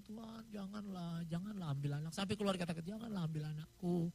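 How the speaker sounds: a hushed, broken prayer; softly pleading prayer. Retold or imitated. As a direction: beg God quietly not to take the child. Praying for the dying baby.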